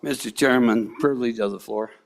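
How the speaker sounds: frog voice. Real, not acted. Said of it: "for I sound like a frog today".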